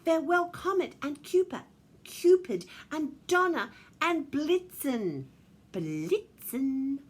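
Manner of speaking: sing-out goodbye, high and loud; calling farewell. A narrator's reading. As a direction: call each name out grandly. Calling farewell to departing reindeer.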